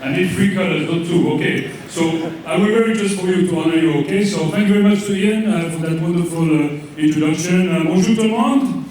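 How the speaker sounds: put-on thick comic French accent, vowels and r's Frenchified; fake French accent. Comedian as French coach Jean-Pierre thanks host, in mock French accent. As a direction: play an over-the-top Frenchman mangling English. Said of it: "you can probably tell from my accent".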